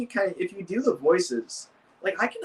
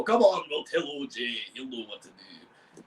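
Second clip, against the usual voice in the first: Big Mac; 4 semitones lower than usual. Shown as a demonstration. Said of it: "he's all the way up there".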